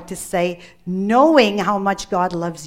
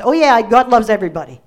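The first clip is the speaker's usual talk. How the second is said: quick, louder offhand brush-off; dismissive brush-off; 6 dB louder, faster than usual. Pretend. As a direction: toss it off as a shrug. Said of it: "I don't want us to look at it as a general sense".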